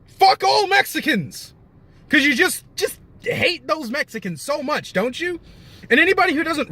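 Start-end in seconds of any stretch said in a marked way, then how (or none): 0.1-1.5 mocking bigot. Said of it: "these same people are now like". 2.1-5.4 mock sympathy. Real, not acted. Sarcastic jab at bigots.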